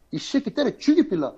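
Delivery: mock-tough Busan sailor in Gyeongsang dialect. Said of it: "경상도 부산 사람들 사투리 세잖아". (경상도 사투리로 거칠게 흉내)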